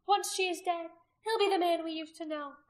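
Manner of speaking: high, loud, persuasive oratory; rally them with fervour; ringing high-pitched public speech; haranguing the crowd. A narrator's reading.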